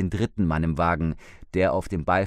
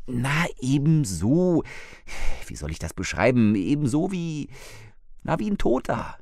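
higher, a hint of an anxious wife; lightly voiced frightened older woman; 6 semitones higher than usual. Wife reports the dead man to husband, lightly anxious. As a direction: let a shaken woman report it.

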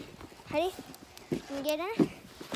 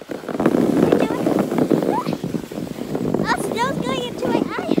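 loud thrilled shouts while sledding; excited yelling; 4 semitones higher, 6 dB louder, much slower than usual. Real, not acted. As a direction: yell out on the ride down. Sledding down, snow in face.

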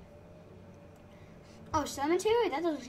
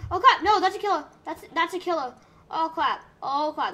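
panicked high yelling; being chased; 4 semitones higher, 8 dB louder than usual. Real, not acted. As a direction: scream it while running for your life. Spots the killer, starts fleeing.

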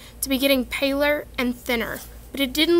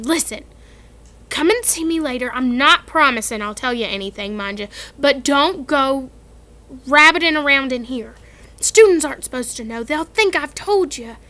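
Hagrid warning; 5 dB louder than usual. Acted.

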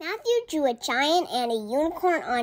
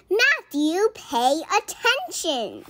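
high, loud call across the field; child's yell; 6 semitones higher, 4 dB louder, slower than usual. A narrator's reading. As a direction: shout it at the daydreamer. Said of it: "The other players yelled".

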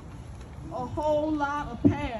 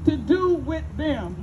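slow, drawn-out claim of power, whatever stretched; lightly voiced master, coldly certain; voicing the old master. Storyteller quoting the master's creed to his son, slow and grave. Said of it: "and then he said".

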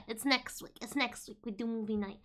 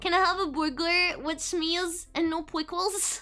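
ordering customer; 3 semitones higher than usual. Acted. Streamer playing a customer ordering at Burger King. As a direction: order like a sweet little customer. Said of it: "She walked to Burger King".

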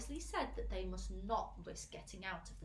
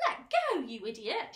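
angry shout; 10 dB louder than usual. A narrator's reading. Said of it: "shouted the centipede".

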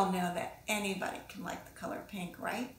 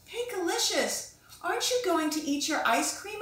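higher mommy voice, gentle question; mother's voice; 7 semitones higher than usual. Acted. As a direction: voice Mommy checking on her daughter. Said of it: "asked Mommy".

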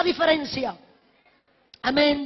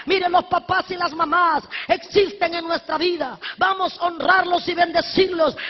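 preaching at full force. Acted. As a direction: preach it out to the church with fire. Preaching to congregation.

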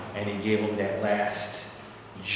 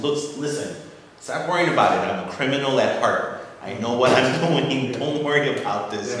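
emphatic reassurance; 5 semitones higher, 7 dB louder than usual. Retold or imitated. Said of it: "I said".

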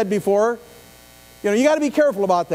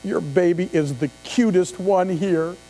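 mock flattery; 3 semitones lower than usual. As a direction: coo it sweetly, laying it on thick. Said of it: "walked up to every one of them and said".

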